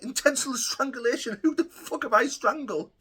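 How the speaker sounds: laughing it off. Retold or imitated. Hearing a strangulation charge, laughing in disbelief. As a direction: scoff at the charge while laughing. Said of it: "when I laughed them all off".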